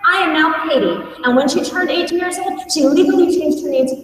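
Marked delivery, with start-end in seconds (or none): 0.1-1.0 higher, sing-song proud announcement; a kid bursting in to share big news; singing out to the family, thrilled; joyful announcement. Retold or imitated. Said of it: "and she's like".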